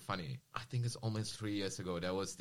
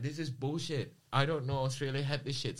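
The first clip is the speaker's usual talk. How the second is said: retold outrage, higher and louder; indignant protest; 7 semitones higher, 5 dB louder than usual. Retelling indignant protest at rally.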